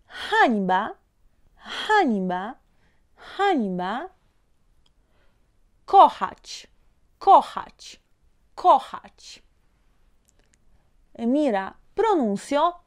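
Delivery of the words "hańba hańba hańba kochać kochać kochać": hańba and kochać said as separate, careful model words; pronunciation demo. Shown as a demonstration. Teacher models Polish words for student to spot the sound, pronunciation demo. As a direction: give "Hańba" and "kochać" with the same breathy J sound. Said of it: "yo te voy a pronunciar".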